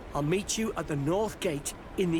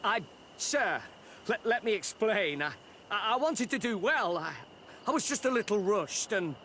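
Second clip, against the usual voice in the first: nervous stutter, pitch pushed higher; frightened stammering; 4 semitones higher than usual. Acted. Servant stammers excuses to the furious boss, frightened. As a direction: stumble over the words, scared of the boss.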